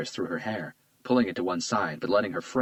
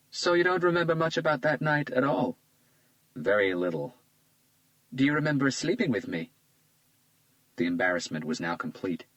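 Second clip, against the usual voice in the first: put-on lightly raised, charmed young woman; a flattered young woman, a bit higher; Isabella's voice; 6 semitones higher than usual. A narrator's reading. Isabella charmed by Hunter's compliment, lightly higher voice.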